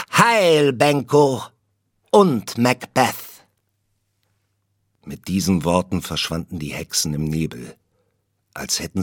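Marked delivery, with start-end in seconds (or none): 0.1-3.3 much higher, louder triumphant cry; ringing hail. A narrator's reading. Third witch cries out her farewell to both men, high ringing hail. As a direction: call it out as a parting fanfare.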